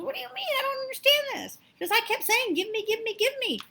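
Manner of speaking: a dead man stunned that he missed his riches; mock disbelief rising into a whiny give me chant; bewildered protest.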